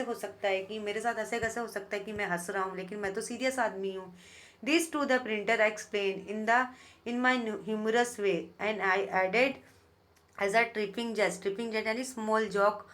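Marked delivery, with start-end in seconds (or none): 4.6-11.4 very slow, deliberate reading of verse; teacher reading poetry aloud; poem recitation. Shown as a demonstration. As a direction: savour each word of the poem line.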